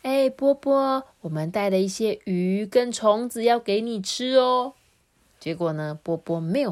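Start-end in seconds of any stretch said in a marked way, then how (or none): 0.0-4.7 tender. Acted. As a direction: gently coax the sulking child to eat. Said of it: "他们温柔地对波波说". (温柔地哄孩子)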